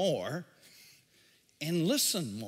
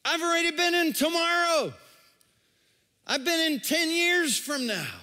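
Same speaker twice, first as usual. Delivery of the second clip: Jesus; 9 semitones higher, 5 dB louder than usual. Acted. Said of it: "and Jesus says".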